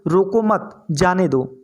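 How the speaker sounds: "रोको मत" together, pause, then "जाने दो"; slow, deliberate break after मत; group रोको with मत, then let जाने दो stand apart. Shown as a demonstration. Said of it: "रोको मत उसे, उसे जाने दो".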